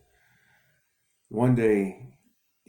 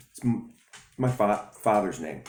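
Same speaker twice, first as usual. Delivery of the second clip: stuttering; 2 semitones higher than usual. Acted. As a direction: catch on the first sounds. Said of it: "he stutters".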